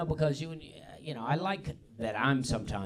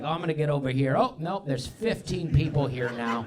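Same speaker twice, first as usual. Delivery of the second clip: mock driver surprise; 4 semitones higher, 5 dB louder than usual. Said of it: "you're like".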